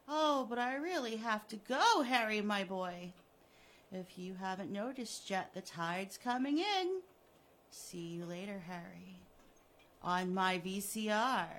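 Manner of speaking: loud, smug farewell; mock-regretful villain. Killer leaving Harry to the tide, smugly loud. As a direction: say goodbye with false regret.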